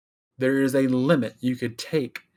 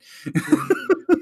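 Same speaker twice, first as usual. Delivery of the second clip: high playful giggle. Pretend. Playful dog voice laugh.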